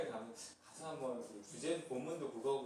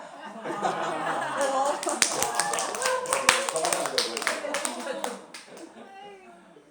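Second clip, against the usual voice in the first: laughing; 12 semitones higher, 9 dB louder than usual. Real, not acted. Laughter after dialect reading.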